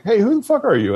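high, sharp mock-instructor demand; retold angry instructor. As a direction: confront him like a fed-up drill instructor. Instructor confronting him, retold.

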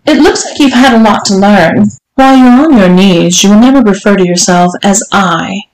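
lightly voiced strict madam, lifting at the question; commanding mistress. Mistress instructing her servant, mildly imperious. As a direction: lay down the rules as a demanding mistress. Voices the story's Missus Johnson.

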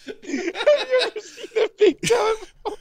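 high-pitched helpless laughter; laughing hard. Real, not acted. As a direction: talk through uncontrollable laughs. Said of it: "I don't think anyone's seen you lose it".

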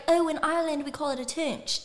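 lightly imitated Irish accent. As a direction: put on a casual mock Irish accent. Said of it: "So I'm talking my accent".

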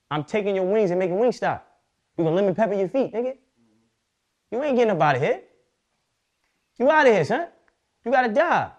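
high, loud hammed-up menace; mock villain threat. Playing the villain threatening the winged hero, hammed-up loud. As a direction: taunt the winged guy like a comic villain.

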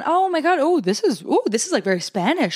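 high, bubbly mock delight, then cooling; excited. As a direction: play along, then let it down. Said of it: "Trying a second one".

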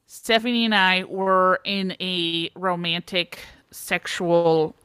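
put-on halting, drawn-out confession with a Minnesota accent; lightly Minnesotan, pausing between the admissions. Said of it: "I have to do a Minnesota accent".

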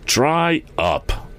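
high-pitched, irritated order; testy command. A narrator's reading. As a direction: cut someone off testily. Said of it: "commanded the chief testily".

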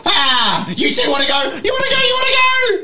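very high loud mock challenge; taunting robot. GM's robot taunting the two players, very high shouting. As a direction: goad them like a hyped-up brawler.

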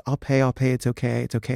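smooth it over in an embarrassed undertone; embarrassed placating. Retold or imitated. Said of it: "the mother is embarrassed".

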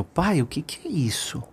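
put-on small, softened child's question; very quiet. A narrator's reading. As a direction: ask dad softly, puzzled. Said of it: "falou bem baixinho".

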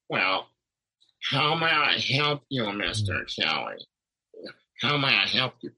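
monotone receptionist voice. Retold or imitated. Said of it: "that monotone voice was really working my nerves".

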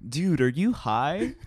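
slow acted question with swooping pitch; Jimmy. TV teen asking his giggling friend in class, slow and incredulous. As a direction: draw it out, incredulous mock question. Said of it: "and then Jimmy's like".

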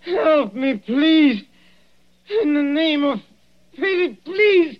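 high, strained, slow pleading; desperate begging. Acted. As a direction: drag out every please. Dying man begs.

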